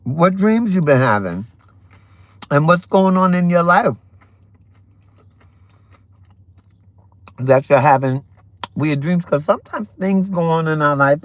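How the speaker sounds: eating while talking; mouth full. Real, not acted. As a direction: talk through a mouthful. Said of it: "I don't mean to talk with my mouth full".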